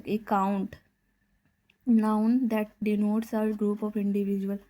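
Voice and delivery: very slow, word by word; slow dictation. Acted. Teacher dictates a definition to the class, very slowly. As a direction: spell it out at writing speed.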